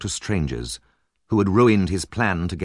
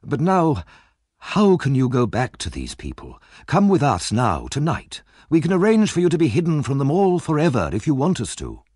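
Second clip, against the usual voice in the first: raised, urgent plea to come away; earnest pleading lady; 8 semitones higher, 4 dB louder than usual. A narrator's reading. Rose urging Nancy to escape tonight, pleading. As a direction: beg her to flee tonight.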